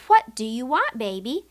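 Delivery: put-on a mother coaxing a crying baby; asking mother. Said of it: "She asks".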